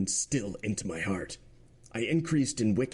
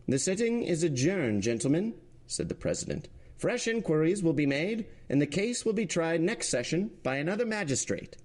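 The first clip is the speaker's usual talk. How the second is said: much higher, urgent judge's voice; alarmed president; 8 semitones higher than usual. Acted. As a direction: shake him back to his senses, higher. President closing the session.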